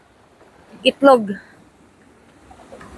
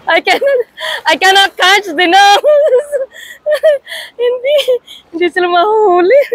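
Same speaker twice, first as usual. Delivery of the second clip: excited frustration; 9 semitones higher than usual. Real, not acted. Failing to catch fish, laughing.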